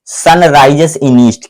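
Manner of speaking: spaced out very slowly for the board; slow dictation. Shown as a demonstration. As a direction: read each word slowly as if writing it. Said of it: "क्या लिखा है?". (बहुत धीरे-धीरे पढ़कर लिखवाना)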